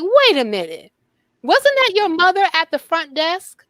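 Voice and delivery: a retold hotel bellman in a light Jamaican accent. Bellman in the elevator teasing the girl, light Jamaican accent. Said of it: "Sir, I can't understand you".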